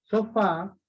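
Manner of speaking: Sofá with the final A leaned on; stress on last syllable. Shown as a demonstration. Teacher showing an aguda ending in vowel, stress on FÁ in Sofá. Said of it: "aguda terminada en vocal".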